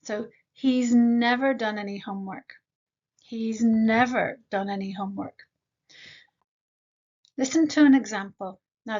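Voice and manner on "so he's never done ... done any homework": he's squished, never stressed; contracted he's. Shown as a demonstration. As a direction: say he's as one short sound. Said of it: "we normally contract has to z".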